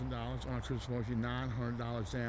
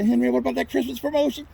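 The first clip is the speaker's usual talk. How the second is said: customer asking; 11 semitones higher, 11 dB louder than usual. Retold or imitated. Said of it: "you say".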